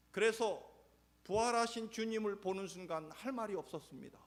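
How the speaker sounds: high, loud pulpit voice; impassioned preacher; fiery preaching. Acted. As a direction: build the sermon to a peak. Preaching at full force.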